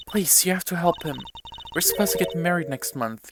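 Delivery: a hint of a worried bride-to-be; lightly voiced pleading fiancée. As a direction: plead gently, pitch slightly lifted.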